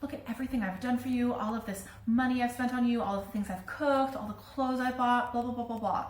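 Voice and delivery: mildly imitating a put-upon mother listing favours; mock guilt-trip. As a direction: reel off grievances as a lightly voiced mother, trailing into blah-blah. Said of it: "gonna have this attitude of".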